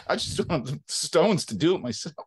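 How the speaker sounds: ordinary delivery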